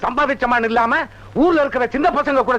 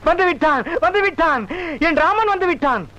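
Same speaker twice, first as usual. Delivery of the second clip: higher, rising joy; overjoyed; 5 semitones higher than usual. Acted. Devotee overjoyed that his Rama has come. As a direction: burst out in delight as the god arrives.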